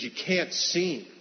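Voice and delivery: slow, firm no from the mother; firm refusal. Retold or imitated. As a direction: lay down the law slowly, "can't" held.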